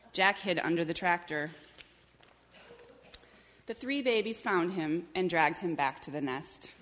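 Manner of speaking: measured picture-book reading; story narration. A narrator's reading. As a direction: read it unhurriedly to young children. Reads a picture book aloud.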